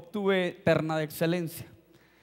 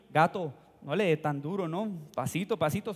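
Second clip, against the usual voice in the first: lower, understated urging to go easy; mock coaxing; 4 semitones lower, 4 dB quieter than usual. Classmates asking him not to hit hard, imitated coaxing. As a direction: imitate friends talking him down. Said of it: "todos los demás me decían a mí".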